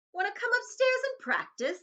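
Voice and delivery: sing-song bully jeer; mocking bully taunt. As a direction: tease him like a nasty cousin. Dudley taunting Harry.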